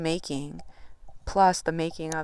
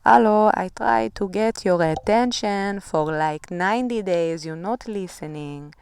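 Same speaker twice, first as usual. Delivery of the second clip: higher, louder knocking voice, tuk tuk hello; voicing the shadow side; 3 semitones higher, 6 dB louder than usual. Shadow side demanding the viewer's attention, higher and louder. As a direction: play the neglected shadow side banging on the door. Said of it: "shadowy side that's coming out and saying".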